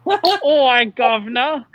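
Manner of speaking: loud mock-Cockney greeting; London accent. Shown as a demonstration. Friend repeating his English accent bit, loud mock London. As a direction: call out in hammed-up London. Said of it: "I think it's London".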